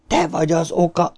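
high, eerie stage whisper; thin high ghostly voice, held back; whispered accusation. A narrator's reading. Dead George blames Bill, whispered accusation. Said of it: "suttogta George".

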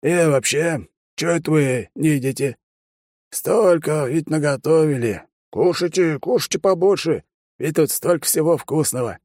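put-on crafty old man pressing about the wedding; sly old man. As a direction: tease like a mischievous granddad. Grandfather changing the subject.

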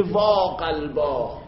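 مثل کسی که دستش روی قلبش است، آهسته بنال; ندبه کشیده. Shown as a demonstration. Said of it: "دستشو گرفته میگه".

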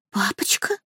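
stunned breathless whisper. A narrator's reading. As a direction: whisper the word in shock. Мэрит потрясена упоминанием отца. (потрясённый шёпот)

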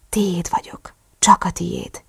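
soft, hushed devotion; whisper. A narrator's reading. Narrator pledging to partner, soft whisper. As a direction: keep it small and intimate.

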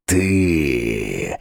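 шипение демона. A narrator's reading. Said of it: "зашипел демон".

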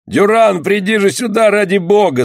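high, pleading call; crying out. A narrator's reading. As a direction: call desperately for the surgeon. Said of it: "закричал снова Зели".

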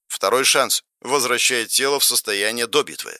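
even, subdued interface voice; game system readout. Acted. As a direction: read the stats like a machine.

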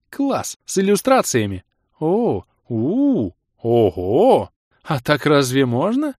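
high, loud excited gasps; girl delighted by illustrated book; thrilled girl. Acted. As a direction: gush and gasp over the pictures.

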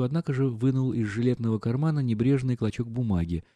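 usual speaking voice

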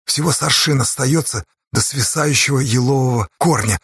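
ordinary delivery

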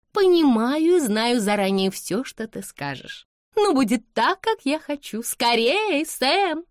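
high, impatient, overriding voice; imperious young lady. A narrator's reading. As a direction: brush off mama and insist. Blanche cuts off mother, insists. (капризно и властно, высоким голосом)

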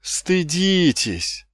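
high, drawn-out scolding; reproachful exclamation. A narrator's reading. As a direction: shame them, stretching the word high. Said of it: "укоризненно воскликнул Маркоу". (укоризненно, высоко и протяжно)

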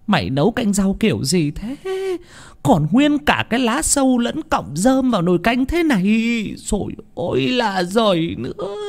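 high-pitched berating voice; scolding mistress. A narrator's reading. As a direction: nag and scold the servant girl. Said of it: "Bà nói". (bà chủ mắng nhiếc, giọng cao)

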